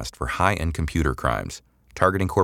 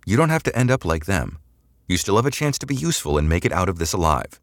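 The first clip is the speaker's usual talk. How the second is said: coaxing threat; 4 semitones higher than usual. Acted. Samantha offering a way out.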